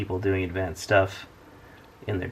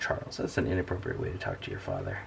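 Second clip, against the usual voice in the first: stern father; 8 dB quieter than usual. Acted. Mock stern fatherly scolding.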